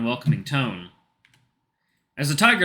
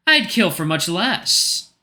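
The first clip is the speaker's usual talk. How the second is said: menacing Doberman; 7 semitones higher, 4 dB louder, much slower than usual. Acted. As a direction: drag out the words to unsettle. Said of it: "Doberman's menacing reply".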